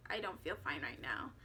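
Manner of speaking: whispered, breathless with nerves; shaky whisper. Retold or imitated. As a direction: barely get the words out, scared. Scared, tells fiance she's not fine.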